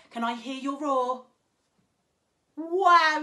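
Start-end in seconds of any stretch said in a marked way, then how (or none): 2.6-3.2 mock amazed wow. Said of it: "you are loud little ones".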